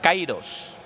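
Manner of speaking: Kairos, stressed on the opening KAI; Greek pronunciation. Shown as a demonstration. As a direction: say Kairos as KAI-ros, falling at the end. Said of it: "suena de esta manera".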